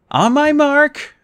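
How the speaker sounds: high, slow, drawn-out command; commanding call. Acted. Percy tells Annabeth to jump on his mark, drawn out. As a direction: stretch each word like a countdown order. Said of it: "I said".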